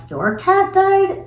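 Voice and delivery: high, drawn-out incredulous question; imitating disbelief. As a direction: question it in mock astonishment, voice way up. Retelling his shocked question.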